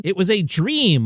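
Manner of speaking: DREAM drawn out slowly at high pitch; all-caps emphasis. Retold or imitated. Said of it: "all caps".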